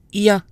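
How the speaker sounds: "Ya" for I E N, nasal; French nasal "Ya"; French ien. Shown as a demonstration. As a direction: say "Ya" gliding into a nasal. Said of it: "I E N is pronounced ya".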